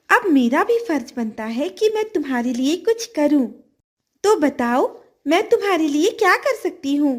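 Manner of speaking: a grateful fish offering help; kind golden fish. Acted. Talking golden fish speaks.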